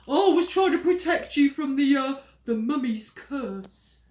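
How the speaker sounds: loud, slowing invention; making it up. Acted. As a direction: stall and invent. Henry invents curse.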